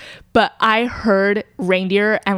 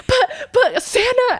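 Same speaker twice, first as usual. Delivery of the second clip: put-on high laughing child plea, slow; whiny little kid; slower than usual. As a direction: plead like a disappointed small kid. Child pleading about Santa.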